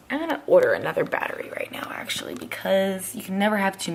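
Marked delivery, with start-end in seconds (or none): 0.1-2.3 hushed whisper aside. Real, not acted. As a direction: whisper it quickly.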